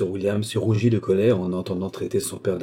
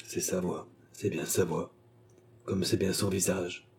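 softer, hollow murmur, half to himself; muffled murmur; 7 dB quieter than usual. A narrator's reading. The idiot murmurs recognition of the baronet, muffled and soft. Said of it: "murmura l'idiot d'une voix sourde".

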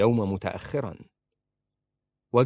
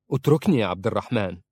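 fast, louder plea; pleading; 5 dB louder, faster than usual. Acted. Princess struggles in her husband's grip, a fast louder plea. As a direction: hurry to beg him to let go. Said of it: "فقالت في رجاء".

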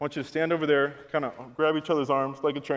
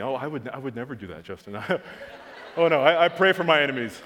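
hammed-up holier-than-thou protest, laughing at the end; mock pious denial; 5 dB louder than usual. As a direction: play the self-righteous churchgoer with a laugh. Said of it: "don't get religious on me".

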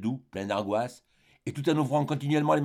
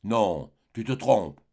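slow, firm and a bit louder; dying wife firmly contradicting her husband; firm strong voice; 3 dB louder, much slower than usual. Acted. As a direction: insist slowly and firmly. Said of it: "d'une voix forte".

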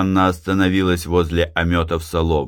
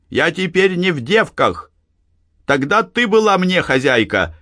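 shouted; 10 semitones higher than usual. A narrator's reading. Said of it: "крикнула Анна".

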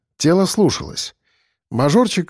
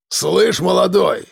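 higher-pitched, aggressive hail; rough "hey you" shout, not full volume; shouted call; 5 semitones higher, slower than usual. Acted. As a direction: call out sharply to challenge a younger man. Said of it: "крикнул он на меня".

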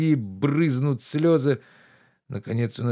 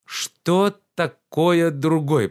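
higher, louder reproachful gentleman; lordly rebuke, pitched up and loud; indignant master Oblomov; 6 semitones higher, 5 dB louder, much slower than usual. Acted. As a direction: scold the servant with wounded pride.

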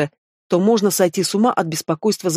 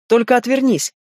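pleased smile; 6 semitones higher than usual. Acted. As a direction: savor the win with a grin. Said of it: "довольно улыбнулась Лиса".

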